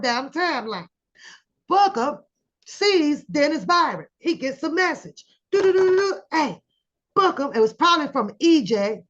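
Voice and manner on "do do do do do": imitated alert tone.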